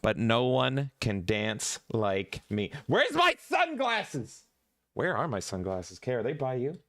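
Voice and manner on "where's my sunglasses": a drawn-out high sing-song question; sing-song high call. Acted. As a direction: sing it out high and slow, like a little tune. Hunting for sunglasses before dancing.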